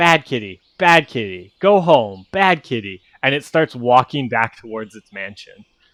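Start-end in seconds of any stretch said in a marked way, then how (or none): 0.0-3.0 small, parroting parrot voice. The creature repeats the player's yelled words back at them, in a little parrot voice. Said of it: "its little parrot voice".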